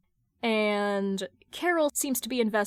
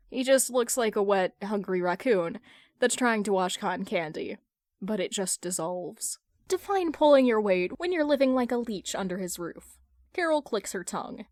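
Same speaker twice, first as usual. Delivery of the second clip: ordinary delivery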